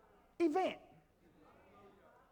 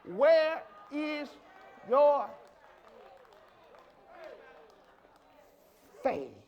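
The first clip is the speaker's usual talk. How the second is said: loud, drawn-out words, dropping after a long pause; booming challenge; 6 dB louder, much slower than usual. Real, not acted. Preacher asks if they understand his words, booming challenge. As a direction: hammer the question, then let the last word fall.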